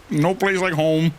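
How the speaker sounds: Dorothy imitation. Dorothy quote, heels clacking.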